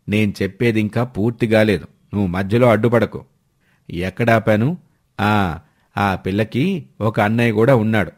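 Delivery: a hint of a persuading uncle, low; matchmaking uncle. Uncle presses his plan.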